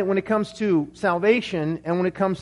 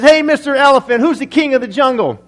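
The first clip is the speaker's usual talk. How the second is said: loud, higher boastful lion; prideful lion; 5 semitones higher, 7 dB louder than usual. Acted. Lion confronting an elephant about his title, loud bluster. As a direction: call out the challenge at full volume.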